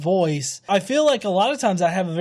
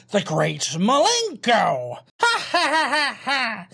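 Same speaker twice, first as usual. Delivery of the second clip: evil clown voice; 2 semitones higher than usual. Acted. Album title read dramatically.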